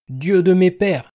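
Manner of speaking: put-on an old man crying out to God; despairing outcry to heaven; anguished groan. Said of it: "gémit Isaac".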